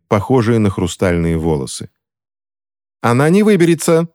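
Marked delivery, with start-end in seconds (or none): 3.0-4.1 high-pitched narrated cry. A narrator's reading. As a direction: call out urgently, pitch raised. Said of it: "крикнула Селен Палмер".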